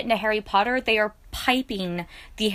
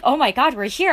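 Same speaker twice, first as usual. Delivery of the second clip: a touch louder, retelling the thrill; excited gasp; 4 semitones higher, 6 dB louder than usual. Retold or imitated. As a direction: relive the moment you realise you're there. Retold hearing the night bus music.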